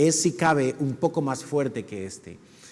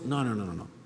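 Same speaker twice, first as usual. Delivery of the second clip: soft emphatic no; 6 semitones lower, 8 dB quieter than usual. Real, not acted. Rejecting the caricature.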